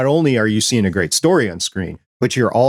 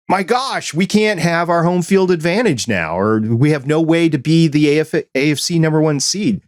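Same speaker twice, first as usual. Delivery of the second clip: higher-pitched mock dismay; dismayed fans; 6 semitones higher than usual. Bengals fans reacting to the canceled game, mock dismayed. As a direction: lament it like an upset sports fan. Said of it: "Bengals fans are like".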